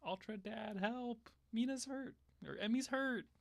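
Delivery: high, drawn-out plaintive call; pleading for help. Pretend. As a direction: beg for help in a high, worried voice. Voices a plea to Ultraman.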